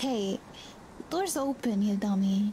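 plain

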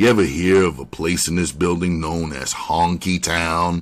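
plain

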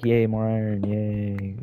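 play-acted unenthused, flat, very slow, drawn-out deadpan monotone. Recalling a reaction to getting more iron, acting out a flat unexcited reaction. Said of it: "I know I didn't sound very happy about it, I was just like".

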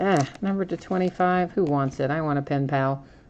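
ordinary talk, nothing marked

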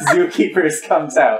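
high voice, laughing through the words.

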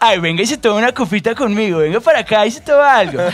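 exaggerated posh Bogotá accent. Speaker demonstrating the most mocked Bogotá accent, exaggerated Rolo Bogotá accent. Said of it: "te voy a echar el acento Rolo más representativo".

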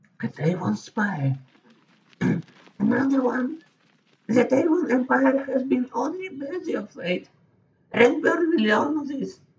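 put-on very high, slow, calm, unbothered old woman voice. A narrator voices an old woman hearing news of Orion's escape; charming, unconcerned old woman. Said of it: "The charming old woman sips her tea, seemingly unconcerned by the death she has just ordered".

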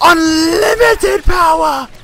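slow high-pitched screaming.

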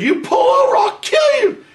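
put-on shrill, very high, loud yell. Recounting yelling from the window at a pickup driver, retelling his own yell. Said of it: "I yell".

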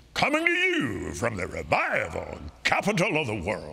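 deep, swooping radio announcer voice. Recalling flying alone at night, the speaker repeats what he heard: radio announcer voice. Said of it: "in a radio voice".

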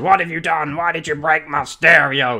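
terrible, bad put-on American accent. Retelling a show scene where a man goes crazy at Alicia, terrible American accent. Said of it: "that terrible accent".

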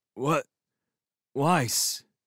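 dazed, half-conscious mumbling. Hauled off the stairs and urged to come along, a man answers: dazed mumble. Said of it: "he mumbled, dazedly".

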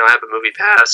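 cracking, breaking voice mid-line. Discussing a Bruce Willis movie with another speaker, voice cracking. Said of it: "so my voice just cracked".

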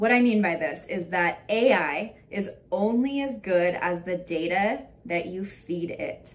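very slow, deliberate, every word weighted. Teaching people how to use ai well, speaking very slowly. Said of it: "I say it so slow".

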